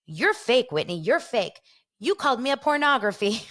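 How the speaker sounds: lightly hammed-up reality-TV accusation; mock quarrel. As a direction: imitate an indignant castmate hitting back. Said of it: "Whitney and Mary are going at it".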